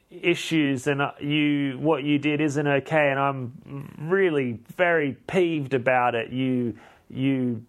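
halting, half-hearted mock tirade; mock yelling. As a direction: scold him haltingly, insults drawn out. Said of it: "yelled at him".

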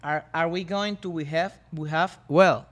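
English read out slowly word by word; slow careful reading. Shown as a demonstration. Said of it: "Again, a ver".

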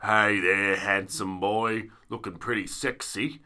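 low, slow creepy voice memo; creepy older man voice. Retold or imitated. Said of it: "it's always things like".

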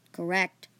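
a touch of annoyance; slightly annoyed. Acted. Dragon-like girl confirms the remark, slightly annoyed. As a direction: answer with restrained irritation. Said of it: "slightly annoyed".

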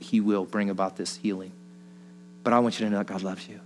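gentle prayer. Retold or imitated. Retold prayer over a stranger.

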